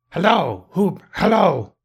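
high hailing call. A narrator's reading. Scrooge calls to storybook figures, high excited hail. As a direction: hail a far-off figure, pitched well up.

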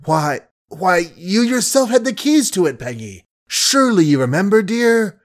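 frantic lover pleading, pitch leaping; desperate pleading. Acted. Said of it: "Billy's voice shook and skipped whole octaves as he pleaded".

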